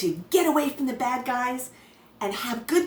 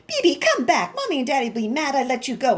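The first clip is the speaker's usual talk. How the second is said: calling scream; 3 semitones higher, 3 dB louder than usual. Acted. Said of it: "I screamed".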